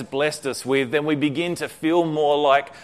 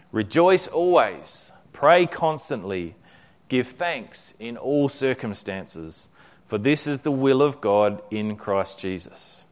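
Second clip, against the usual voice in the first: slow, measured reading; scripture reading; slower than usual. A narrator's reading. Corrie reading the verse aloud, slow and reverent. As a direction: lay each phrase down reverently.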